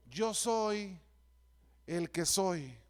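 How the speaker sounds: measured, with a pause, ending low; solemn divine answer. Acted. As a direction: give God's answer gravely, lowering the second half. God's answer to Moses quoted.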